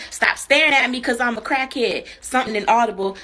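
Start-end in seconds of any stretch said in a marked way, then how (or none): 0.1-2.1 retold yell, a bit louder; mild mock yell. Crackhead yells at guy outside the store, mild mock yell. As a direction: imitate a man yelling at someone staring. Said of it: "'Cause he was yelling at the guy".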